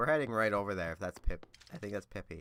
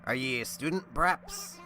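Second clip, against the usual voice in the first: pirate voice. Acted. Voicing a pirate villager.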